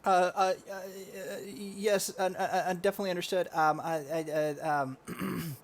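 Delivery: a hint of a nervous, stammering soldier. Soldier confessing his rank to an officer, sheepish.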